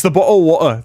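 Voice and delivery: BOTTLE OF WATER with British dropped t's; mock British accent. Shown as a demonstration. Streamer showing what Brits omit, in a mock British accent. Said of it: "They just, like, omit".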